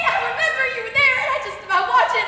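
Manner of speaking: distressed. Acted. Distressed pleading.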